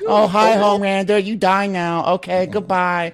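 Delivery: put-on high, playful caricature Asian accent; mock Asian accent. Voicing her greeting Homelander before killing him, mock Asian accent. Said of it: "a strong Asian accent".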